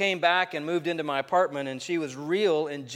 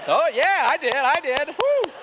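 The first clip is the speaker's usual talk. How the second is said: cheering crowd voice; 12 semitones higher, 7 dB louder than usual. Retold or imitated. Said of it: "got a big response for that".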